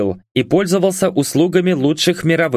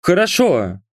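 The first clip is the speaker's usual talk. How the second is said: meek high-pitched assent; small, raised underling voice; muttering servant; 6 semitones higher than usual. A narrator's reading. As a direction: give in timidly, voice pitched up. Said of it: "пробормотал Кулебин".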